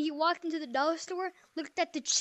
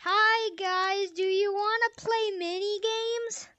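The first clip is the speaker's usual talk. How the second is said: cheap buggy mic voice; toy echo microphone; much slower than usual. Shown as a demonstration. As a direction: talk through a trashy toy mic. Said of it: "Like this".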